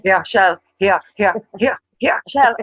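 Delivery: loud calling here, Shell. Shown as a demonstration. Dubliner calling to her friend Shell, a loud call. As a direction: call across the room. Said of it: "kinda roaring".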